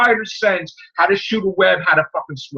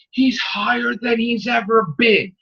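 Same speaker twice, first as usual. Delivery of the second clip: mocking the writer; 3 semitones higher, slower than usual. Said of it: "the fucking writer's response is".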